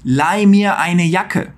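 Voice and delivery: "Leih mir eine Jacke" slow, each word apart; slow clear German model. Shown as a demonstration. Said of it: "como é que você acha".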